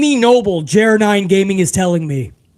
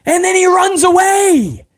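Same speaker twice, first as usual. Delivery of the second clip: mocking; 10 semitones higher than usual. Real, not acted. Mocking Cody running away.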